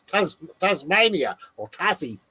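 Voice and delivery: put-on drawn-out, playful Australian accent; mock Australian accent. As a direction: have a rough go at sounding Australian. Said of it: "How was my Australian accent?".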